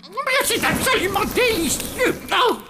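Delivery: delighted exclamation. Acted. Monster delighted by the taste.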